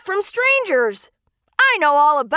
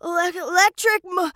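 scared stuttering, breaking off words; terrified stammer. Acted. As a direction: stammer it out in fright. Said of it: "Dinosaur was so terrified he started to stammer".

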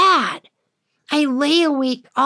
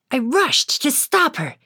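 usual speaking voice

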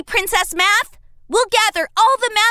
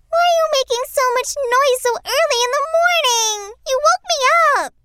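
fast, grumpy whine; grumpy complaint; 3 semitones higher, much faster than usual. Acted. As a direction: whine at being woken. Woken early, complaining.

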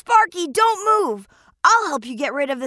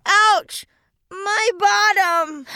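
slow pained wail; hurt from the fall; pained cry; 2 semitones higher, slower than usual. Acted. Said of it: "cried out in pain".

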